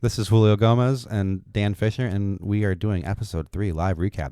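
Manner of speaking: loud radio host announcement. Shown as a demonstration. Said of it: "This is my radio voice".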